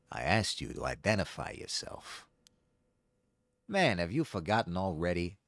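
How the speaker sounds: cocky sneering villain. Acted. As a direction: taunt him like a gloating villain. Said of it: "this is a villain voice".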